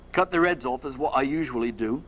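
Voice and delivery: matter-of-fact Cockney, only sketched; a touch of amateur Cockney; Perseus. Acted. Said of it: "like to do a Cockney accent".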